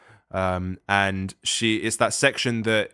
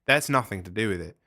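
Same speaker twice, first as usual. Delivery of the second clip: put-on Australian accent. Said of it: "you were indulging your Australian accent there".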